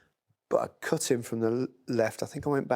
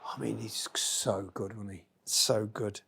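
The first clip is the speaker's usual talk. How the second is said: whisper; 3 semitones lower, 6 dB quieter, slower than usual. Real, not acted. Admiring a goal quietly.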